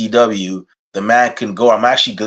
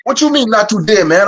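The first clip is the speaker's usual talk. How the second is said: higher, puzzled friend's voice; 9 semitones higher than usual. Retold or imitated. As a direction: ask it like a confused Haitian friend. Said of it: "one of them was like".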